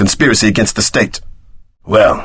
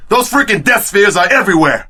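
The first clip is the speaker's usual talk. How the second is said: normal talking voice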